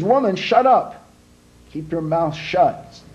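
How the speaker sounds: husband snapping at his nagging wife; gruff snap. Acted. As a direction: tell her to shut up, irritated.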